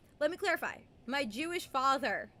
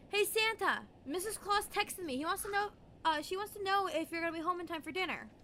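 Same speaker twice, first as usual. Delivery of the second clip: cheeky prank voice, pitched higher; teasing dad; 6 semitones higher than usual. Retold or imitated. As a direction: play the joking dad ribbing Santa. Dad teasing the mall Santa.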